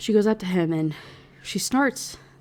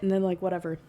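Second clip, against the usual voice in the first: usual speaking voice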